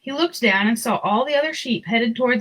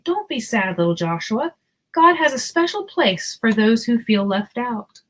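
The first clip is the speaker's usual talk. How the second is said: kind and friendly. Acted. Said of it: "her voice was always kind and friendly".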